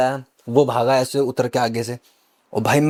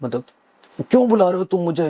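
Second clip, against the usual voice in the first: retold possessed yell; 6 semitones higher than usual. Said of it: "मैं इतनी तेज चिल्लाया".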